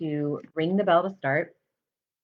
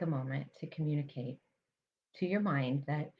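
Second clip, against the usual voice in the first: guided mindfulness meditation. Real, not acted. Meditation teacher guiding listeners to notice their breath, calm and measured. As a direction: calmly guide them to the breath, leaving space between phrases.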